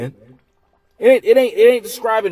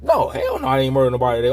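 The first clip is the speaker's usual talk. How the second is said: mock outrage; 5 semitones lower, faster than usual. Customer protests in acted scene.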